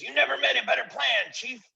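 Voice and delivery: very high, eager voices; butter up the chief; fawning followers. Acted. Followers praising their chief, very high and fawning.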